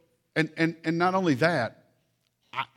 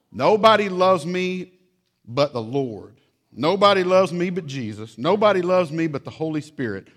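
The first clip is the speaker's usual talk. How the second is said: put-on higher, louder wailing kid; hammed-up child lament; 4 semitones higher, 7 dB louder than usual. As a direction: wail it like a dramatic child. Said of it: "Let me read you a letter".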